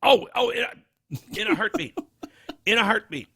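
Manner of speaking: high, eager exclamation; excited. Real, not acted. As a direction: gush agreement high and fast. Eager agreement.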